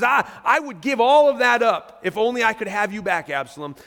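lightly acted cry of regret; imitating grief. David longing for Absalom back, grieving. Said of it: "so overcome with grief that he says".

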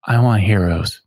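tiny little voice in the darkness; small faint voice calling from the dark; tiny tinkling snowflake whisper. Acted. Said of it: "you hear a tiny little voice in the darkness".

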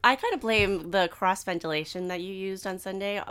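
congested, gravelly smoker's voice; stuffed-up allergy voice; stuffy smoker's voice. Real, not acted. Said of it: "you have a smoker's voice this morning".

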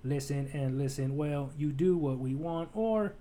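slow, measured robot delivery; almost robotic, evenly spaced words; mechanical voice. Acted. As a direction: speak slowly like a machine. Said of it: "a voice that is almost mechanical".

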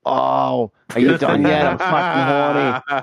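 slow, hammed-up wife impression; mock wife voice. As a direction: camp it up as the wife. Voicing wife mockingly.

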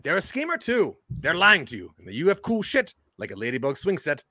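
a put-on, hammy Cockney accent; weird Cockney accent. Class presenter to classmates, in a weird Cockney accent. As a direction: lean into a wobbly fake Cockney accent.

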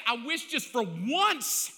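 begging God for relief; frustrated plea. Retold or imitated. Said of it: "I even said".

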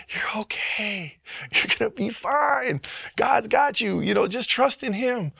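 high, teary, tender voice; tearful reassurance. Real, not acted. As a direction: comfort yourself through tears. Reassuring sermon, near tears.

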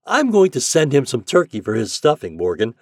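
high, loud, hearty commands; captain giving orders. A narrator's reading. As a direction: order the crew about with urgent goodwill.

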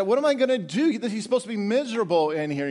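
high-pitched, baffled complaint; acted bewildered grumble; confused Satan. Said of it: "Satan's confused".

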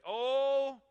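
a call-and-response lament, loud then slowed; led loud exclamation. Shown as a demonstration. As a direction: cry it out with the congregation, drawing it slowly. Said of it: "Say it with me".

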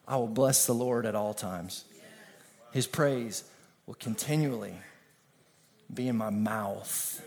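low, soft and hushed, slowing at the end; soft reverent reading. Acted. Preacher to congregation, softly reciting David's psalm. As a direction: murmur the verse as a quiet prayer. Quiet reverent repeat of the verse.

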